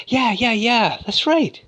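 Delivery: high, badly acted agreement; mock a terrible actress in falsetto; hammed-up high eager yeah. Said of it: "the worst acting".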